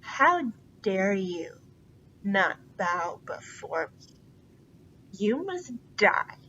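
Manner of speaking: a touch of pompous fury; megalomaniac rant. Acted. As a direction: rant like a vain tyrant. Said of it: "megalomaniac rant".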